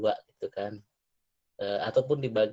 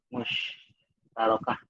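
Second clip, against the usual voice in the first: "musyarakah" said very slowly, syllable by syllable; slow careful repeat; much slower than usual. Shown as a demonstration. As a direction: stretch out "musyarakah" carefully, each syllable clear.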